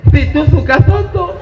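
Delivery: "soto" said as "toto", s turned to t; mock the friend's lisp on "Situ suka soto". Shown as a demonstration. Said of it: "mesti fasih". (meniru cadel, "soto" jadi "toto")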